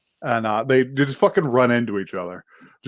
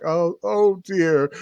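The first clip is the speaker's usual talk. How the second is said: slow, higher-pitched mock dismay; dismayed mom; 5 semitones higher, slower than usual. Mom reacting to her son's find, slowly dismayed. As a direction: imitate a mother gently taken aback. Imagined mom's reaction to DVD.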